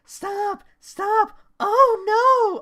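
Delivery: high, rising panicked cry; high pitched panicked yell; strangled Percy yelp. Retold or imitated. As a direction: squeal it out as if being strangled. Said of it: "he sent that line".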